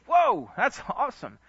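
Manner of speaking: high, thrilled exclamation; delighted whoa. Retold or imitated. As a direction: pastor hearing about a ten thousand donation, high delighted whoa. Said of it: "I'm like".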